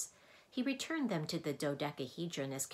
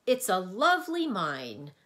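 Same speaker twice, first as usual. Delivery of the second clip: apologetic humbug; 3 semitones higher, 10 dB louder than usual. A narrator's reading. Humbug nervously flatters the Mathemagician, apologetic. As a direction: placate the booming wizard. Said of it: "apologized the humbug".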